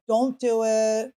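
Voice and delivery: slow, weighty mock-ominous warning; a hint of a solemn, slow warning. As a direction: lightly imitate a controlling shaman drawing it out. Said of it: "it was weird the way he said it".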